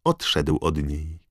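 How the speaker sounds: sneering villain. Acted. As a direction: sneer at the muggle father. Voldemort tells his history.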